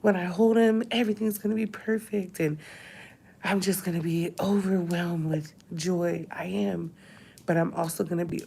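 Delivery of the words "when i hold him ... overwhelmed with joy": mock-bright, higher overjoyed voice; lightly hammed-up false happiness; fake cheer. Vlogger mocking the fake joy she refuses to perform, bright mock cheer. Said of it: "don't wanna be fake and be like".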